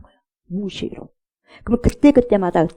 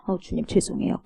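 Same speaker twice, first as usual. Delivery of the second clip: meek apology; 7 dB quieter than usual. Acted. Believer answering the Lord's rebuke, meek apology. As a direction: drop to a small, contrite reply.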